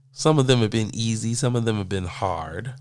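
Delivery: usual speaking voice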